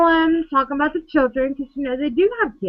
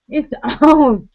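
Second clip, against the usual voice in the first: laughing threat; 2 semitones higher, 5 dB louder than usual. Retold or imitated. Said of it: "'cause they're like".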